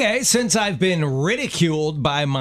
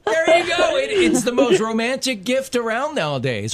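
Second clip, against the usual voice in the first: mock excitement; 10 semitones higher than usual. Joking gift praise.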